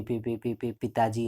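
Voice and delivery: पी repeated before पिताजी, mock stammer; imitating a stammering girl. Shown as a demonstration. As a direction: stutter on पी then get पिताजी out. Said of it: "ऐसा करके बोलती थी".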